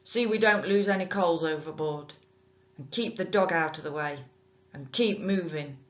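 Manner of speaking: a rough bargeman bossing his lad; gruff bargeman orders. Acted. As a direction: order the boy about like a rough boatman.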